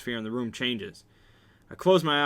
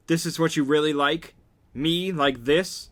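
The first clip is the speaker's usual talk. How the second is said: raised, indignant questioning; angry challenge; 4 semitones higher, 5 dB louder than usual. A narrator's reading. Confronting him after the beating, angry and challenging. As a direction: throw the question at him, pitched up and louder.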